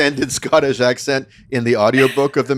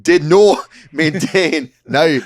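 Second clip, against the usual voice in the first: put-on Scottish accent; 3 semitones higher than usual. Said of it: "an incredible Scottish accent".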